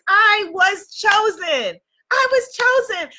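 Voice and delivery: chanting I was chosen; proud affirmation. Shown as a demonstration. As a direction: declare it like a mantra, rising. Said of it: "Type that in the comments".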